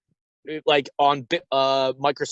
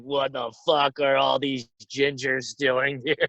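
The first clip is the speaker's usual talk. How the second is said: alien voice; 2 semitones lower, slower than usual. Pretend. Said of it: "they're like".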